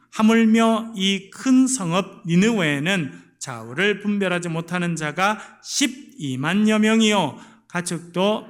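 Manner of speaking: loud, slow unison reading of scripture; scripture read aloud together. Real, not acted. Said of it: "같이 읽겠습니다".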